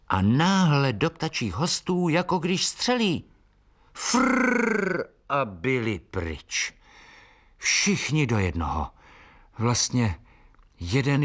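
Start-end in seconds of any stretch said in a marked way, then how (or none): 3.9-6.7 slow rolled frrr of wings; rolled flutter sound. A narrator's reading. Narrator imitates birds scattering, slow rolled frrr. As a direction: mimic birds whirring away.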